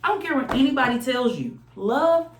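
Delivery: high, fast sassy spirit voice; spirit's voice. Retold or imitated. Reader voicing the spirit's message to the viewer, high and sassy. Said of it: "Spirit's like".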